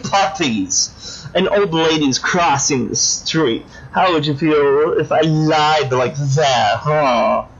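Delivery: lightly voiced petulant little-girl villain; childish doll villain. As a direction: pout and whine like a spoiled doll.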